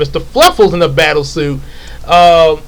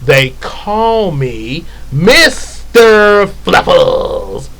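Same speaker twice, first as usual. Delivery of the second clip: tough-guy line; 3 semitones higher, much slower than usual. Acted. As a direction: drawl it out like an action hero. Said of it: "Sort of like that".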